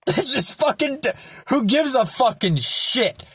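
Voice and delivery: high-pitched, exasperated outburst through a laugh; exasperated, high and half laughing; laughing exasperation. Real, not acted. Laughing exasperation over a simple answer.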